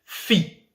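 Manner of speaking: "fi" said alone, high; stressed last syllable. Shown as a demonstration. Teacher pointing out the last syllable, "fi" high and separate. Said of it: "La dernière syllabe, c'est".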